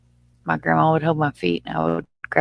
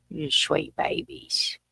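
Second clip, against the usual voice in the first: whisper; 6 dB quieter, much slower than usual. Real, not acted. Whispered coo at baby gators.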